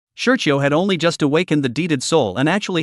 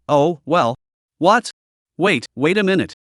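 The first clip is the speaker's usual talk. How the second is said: startled, pitch jumping up; flustered protest, wait wait; alarmed. Acted. Alarmed at more buffs.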